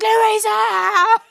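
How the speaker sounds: high, loud call across the beach; mock calling out with a laugh; calling Louisa. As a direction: shout her name playfully. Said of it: "he's like".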